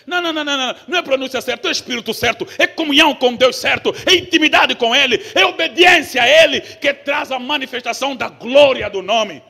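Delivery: loud insistent sermon, words hammered out; fiery preaching. Acted. Preacher insisting to the congregation, loud and fervent. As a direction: drive the point home to the church.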